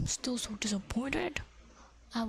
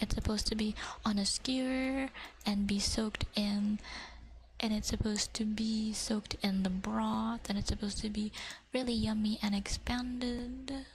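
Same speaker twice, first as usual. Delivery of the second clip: ASMR whisper. Acted. Whispering to viewers about fish cake. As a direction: whisper it close to the mic.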